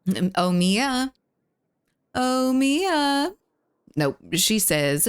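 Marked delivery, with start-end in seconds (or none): 2.1-3.3 high, sing-song call; calling the pet. Real, not acted. Streamer calling out to Mia, high sing-song call. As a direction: draw the name out high to coax. Calls the pet again, much higher.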